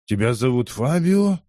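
lightly voiced old man, doubting; an old man squints and asks; old man's query. A narrator's reading. To the narrator: lightly voiced old man doubting.

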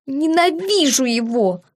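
a tearful sob-tinged outburst; sobbing. A narrator's reading. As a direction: choke it out through tears. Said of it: "всхлипнула я". (со всхлипом)

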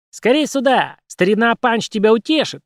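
high cartoon squeak; squeaky puppet voice. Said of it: "пропищала кукла".

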